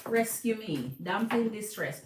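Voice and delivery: mock plea for rescue; hint of a helpless damsel; damsel in distress. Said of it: "he want to seem like the damsel in distress".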